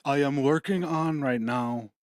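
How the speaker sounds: attempted celebrity impression, badly faked; a weak stab at a famous voice; Elon. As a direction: try a halting tech-mogul voice and miss. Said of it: "I can't do an Elon voice".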